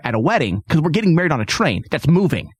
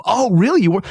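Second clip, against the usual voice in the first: higher-pitched retold surprised question; mock surprise; 4 semitones higher than usual. Barber reacting to the customer's home job, mock surprise. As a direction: imitate a nosy barber's surprise.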